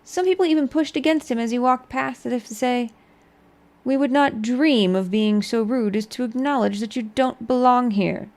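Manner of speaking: measured storybook narration; story narration. Acted. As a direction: read it like a tale. Reads skill book aloud.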